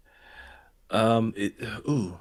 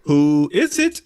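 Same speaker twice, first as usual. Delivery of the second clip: deep voice attempt; 5 semitones higher, 9 dB louder, slower than usual. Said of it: "the deepest voice fate can muster".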